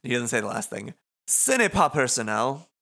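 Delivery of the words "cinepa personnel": much higher, sly villain voice with a laugh; smug Motoi voice. Acted. Motoi mocks Rindo for staring, high sly taunt. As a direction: tease him like a grinning schemer.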